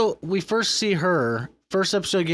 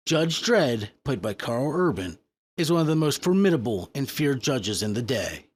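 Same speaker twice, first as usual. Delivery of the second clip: bad announcer voice; 2 semitones lower than usual. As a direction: read it like a hammy trailer. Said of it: "really bad announcer voice".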